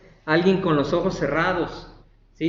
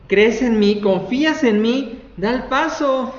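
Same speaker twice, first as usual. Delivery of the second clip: louder, higher, insistent urging; urgent challenge; 6 semitones higher, 5 dB louder than usual. Acted. God urging a believer to take the step, urgent challenge. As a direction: press them hard to trust you.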